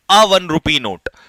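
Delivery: very slow, spaced words; slow dictation. Shown as a demonstration. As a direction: spell it out slowly for notes. Teacher dictating an example.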